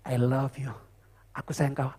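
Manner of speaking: a pastor acting a lover murmuring sweet words; lover's whisper. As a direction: breathe it sweetly into a lover's ear. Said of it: "dibisikkan ke telinganya".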